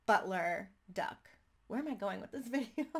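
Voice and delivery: laughing through the words; amused laughing. Real, not acted. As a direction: break into a laugh at your own silly idea. Cracks up at own suggestion.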